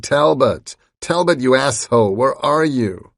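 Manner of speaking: loud, high angry screaming. A narrator's reading. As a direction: scream the name across the beach. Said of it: "Roth screaming".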